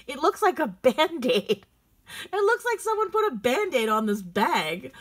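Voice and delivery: high, exasperated rant edged with laughter; amused disbelief. Real, not acted. Shopper mocking an ugly charm bar, amused disbelief. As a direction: rant incredulously, pitch jumping up.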